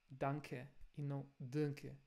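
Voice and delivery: danke said clean, then danke nasalized; right and wrong danke. Shown as a demonstration. Teacher contrasts German and Brazilian pronunciation.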